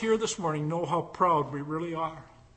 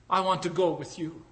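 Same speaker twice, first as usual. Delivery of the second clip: smiling. Acted. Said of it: "And then she smiled and said".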